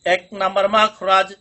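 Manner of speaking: slow, drawn-out teacher recitation for pupils to repeat. Shown as a demonstration. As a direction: say it slowly and clearly for the class to echo. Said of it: "পড়ুন।".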